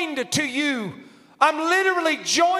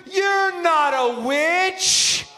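slow reassuring quote; 5 semitones higher, much slower than usual. Retold or imitated. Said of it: "He said".

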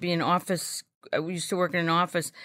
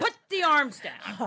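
exasperated; 7 semitones higher, slower than usual. Retold or imitated. Annoyed retort to yoga teacher.

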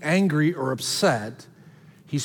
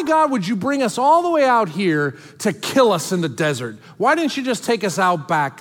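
mock whiny complaining; 2 semitones higher than usual. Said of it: "their complaint is".

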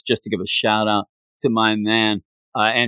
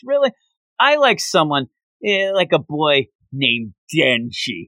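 cutesy; 3 semitones higher than usual. Retold or imitated. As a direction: coo it sweetly to tease him. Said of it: "she gets all cutesy and goes".

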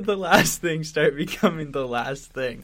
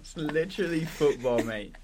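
put-on English accent. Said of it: "I can't even do a good English accent".

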